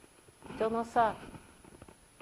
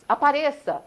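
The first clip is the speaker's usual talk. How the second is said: echoed shout; 6 semitones higher, 10 dB louder than usual. Retold or imitated. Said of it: "repete uma voz".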